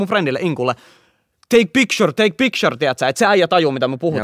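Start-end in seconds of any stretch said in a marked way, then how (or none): 1.5-2.8 high-pitched urgent call to a friend; mock shouting, pitched up; retold shout. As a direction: act out yelling an order. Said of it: "sit mä huudan ihan täysin".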